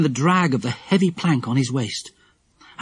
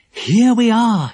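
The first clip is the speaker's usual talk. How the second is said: announcing; 9 semitones higher, 6 dB louder, slower than usual. A narrator's reading. Announcing arrival inside the castle.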